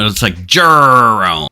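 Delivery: Jerome slow, with a long rolled R; rolled French Jerome. Shown as a demonstration. Game master repeats the French name slowly, rolling the R. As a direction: stretch out the R in Jerome. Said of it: "say Jerome with that many R's".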